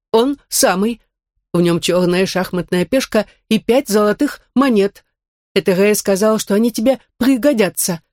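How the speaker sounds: lightly voiced android. Android Max speaks. (голос андроида)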